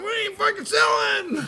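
high laughing yell; laughing falsetto shout. Pretend. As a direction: refuse through laughter. Miners shout refusal, laughing.

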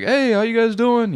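high, slow friendly waiter voice; imitating the waiter. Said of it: "he's like".

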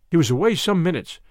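ordinary delivery

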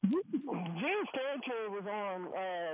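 muffled, hollow phone line; inside a fishbowl. Real, not acted. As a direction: voice as if under water. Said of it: "You sound like you're in a fishbowl".

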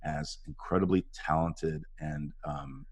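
low-key earnest tribute; sincere. Retold or imitated. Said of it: "I just said".

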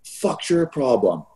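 half-voiced angry holler; retold yell. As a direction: imitate a teammate's challenge, slow, without real volume. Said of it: "you yell down the ice".

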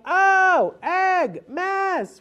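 very high, loud Oh egg mess; playful mock dismay. Shown as a demonstration. Parent playing up a crushed egg for fun. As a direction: make a show of the crushed egg. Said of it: "you wanna make it fun".

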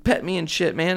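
high, loud silly cat voice; voicing the cat. Owner voicing his cat asking to be petted, high silly voice. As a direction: play the cat as a cocky little creature. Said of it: "and then she's like".

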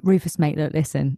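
lightly put-on Cockney accent; a hint of a matey Cockney director. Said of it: "do the director's voice like they're Cockney".

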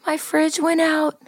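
hammed-up sobbing phone voice that climbs to a drawn-out wail; Carolyn crying. Friend imitating Carolyn's tearful call about spoiled mayonnaise, mock crying. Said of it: "she called me Tuesday crying".

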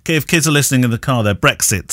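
talking with loose false teeth; words slurred by slipping dentures. Real, not acted. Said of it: "I must put my teeth in".

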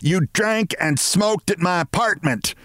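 high-pitched, bawled accusation; bawling. A narrator's reading. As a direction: bawl the charge at the culprit. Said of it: "she bawled at Mister Martin".

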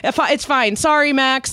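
imitating own pleading. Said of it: "and was like".

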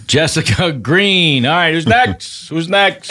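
brisk counter clerk calling next; pizza counter worker. Acted. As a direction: hurry the line along.

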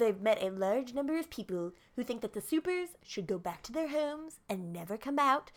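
mock politician speech, rising at the end; botched Trump impression. Resuming the Trump speech about supers, mock politician voice. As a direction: make it a hammed-up stump speech. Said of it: "That sounds like Bernie Sanders".

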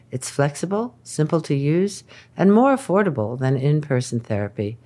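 smooth sponsor read; upbeat podcast ad voice. Acted. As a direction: read the ad like a host. Host reads sponsor ad.

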